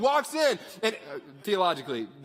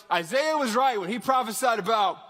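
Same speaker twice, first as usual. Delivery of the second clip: raised, punchy scripture call-out; higher, louder, getting into it; fired up, ready; 4 semitones higher, 5 dB louder than usual. Shown as a demonstration. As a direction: read it like you're ready to throw down. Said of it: "you gotta be, like, ready for this".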